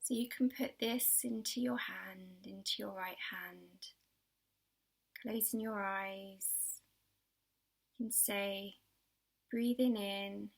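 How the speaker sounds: gentle, unhurried guiding with long pauses; children's relaxation exercise voice; guided meditation. Acted. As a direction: ease young listeners into calm, phrase by phrase. Guides a pebble visualisation.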